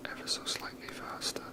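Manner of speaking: ordinary talk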